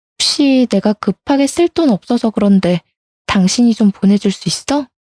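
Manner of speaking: ordinary talk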